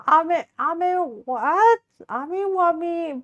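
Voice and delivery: high, drawn-out mock child voice; British child impression. Streamer fumbling the cake line, high British child voice. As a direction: stretch it out as a puzzled pretend British child. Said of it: "Proceeds to be a British child".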